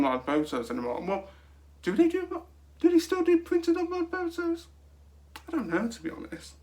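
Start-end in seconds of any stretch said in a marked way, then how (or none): 1.8-4.7 high, thin squeak of a question; squeaky high voice. Acted. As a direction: pitch it way up like a cartoon.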